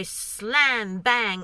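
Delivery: drawn-out, emphatic bang noises in words; imitated slamming. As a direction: mimic a drawer being slammed, stretching each word. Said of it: "very aggressively".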